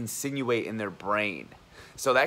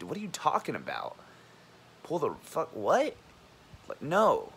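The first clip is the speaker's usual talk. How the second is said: incredulous outburst; 6 semitones higher than usual. Retold or imitated. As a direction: burst out like you can't believe what he said. Retold angry reaction to coworker.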